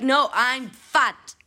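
lightly hammed defiance to a nosy stranger; mock defiant reply. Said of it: "It's like".

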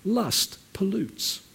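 slow, deliberate two words; slow emphasis. Shown as a demonstration. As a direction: lay each word down slowly. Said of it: "repeated for emphasis".

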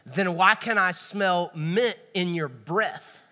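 slow mock-stern question, laughing; trying to sound tough through laughter; stern but laughing. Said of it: "trying to be tough, but you're laughing".

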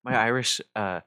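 playfully offended, half-laughing; mock indignant. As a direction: fake outrage, mostly a joke. Mock offense over the accent.

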